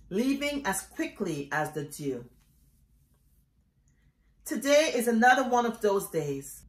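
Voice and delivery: solemn poetry reading, phrases set apart by pauses; poem recitation. Acted. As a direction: recite it line by line, each falling away at the end. Reads own poem aloud.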